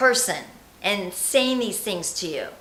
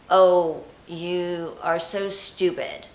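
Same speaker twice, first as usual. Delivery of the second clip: scornful inner critic; 3 dB louder, much slower than usual. Acted. Example of the inner critic speaking.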